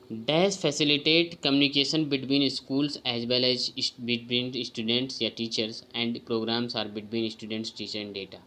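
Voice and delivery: slow, deliberate reading of a test item; careful exam-prep read-aloud; slow question reading. Acted. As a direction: read each word out carefully to the class. Reads quiz item aloud.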